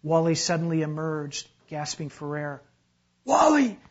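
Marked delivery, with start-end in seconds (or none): 3.2-3.8 high, loud shout of a name; yelled call. A narrator's reading. Uncle calls the rescuer from the boat, yelling. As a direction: holler to a swimmer out in the water. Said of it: "yelled Uncle Reuben from Leon's boat".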